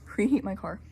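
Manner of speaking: laughing. Real, not acted. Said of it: "I'm out of breath".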